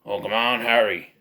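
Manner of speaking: lightly put-on gruff mentor voice; a hint of an Irish character impression; Mad-Eye Moody. Reviewer recalling the actor's other role, lightly imitated. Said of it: "Think of Mad-Eye Moody".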